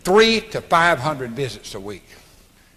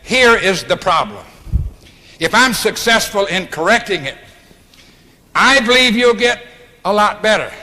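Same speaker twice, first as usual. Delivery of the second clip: authoritative; 4 semitones higher, 3 dB louder than usual. Shown as a demonstration. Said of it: "talk with authority".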